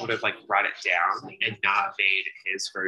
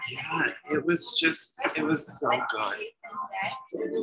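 slow drawn-out praise; 5 semitones higher, 3 dB quieter, much slower than usual. Real, not acted. Cohost drawling that it was so good, slowly. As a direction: stretch it out slowly, softer. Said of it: "drawn-out praise".

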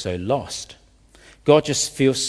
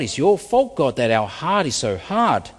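acted accusation, pitched up at the start; blaming God. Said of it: "they're blaming God".

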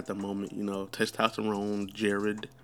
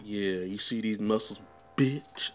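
mock toxic brag; slower than usual. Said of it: "I'm just mad toxic".

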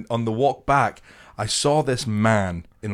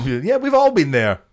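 high-pitched, overdone reassurance; mock reassurance; 5 semitones higher, 3 dB louder than usual. Helper consoling embarrassed drunk woman, exaggeratedly reassuring. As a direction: lift it high to make her feel better.

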